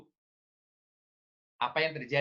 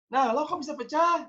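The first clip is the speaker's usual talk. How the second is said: accusing parent; 12 semitones higher than usual. Retold or imitated. Parent asking the child how the plate broke, high. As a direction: quiz the child like a suspicious parent.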